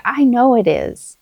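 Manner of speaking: put-on slow, firm encouragement to a child; steady them with calm certainty; reassuring. Shown as a demonstration. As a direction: parent encouraging a struggling child. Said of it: "And I'll say".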